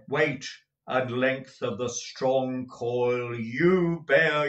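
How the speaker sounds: slow, heavy warning; ominous ghost. Acted. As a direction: weigh every word to frighten him. Ghost warns Scrooge of his chain.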